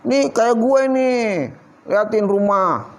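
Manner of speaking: drawn-out bragging, showing off possessions; boastful show-off. Acted. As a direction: brag with stretched-out words. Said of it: "ngomong gitu".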